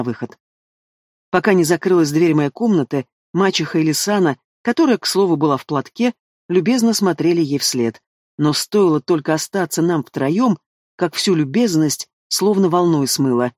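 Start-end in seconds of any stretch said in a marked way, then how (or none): none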